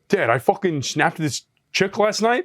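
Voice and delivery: a hint of a boastful Long Island kid; mock bragging kid. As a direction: drag it out like a proud little kid. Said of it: "And he was like".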